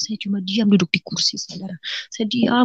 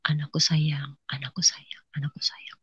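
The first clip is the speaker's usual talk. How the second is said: very soft, near-whispered endearment; tender whisper; 4 semitones lower, 13 dB quieter than usual. Retold or imitated. Jesus holding her as a child, tender whisper. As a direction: hush it like cradling a child.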